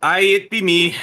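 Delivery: loud rough pirate talk. Acted. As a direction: announce yourself like a pirate. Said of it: "I talk in an Irish accent ... sometimes I be a pirate".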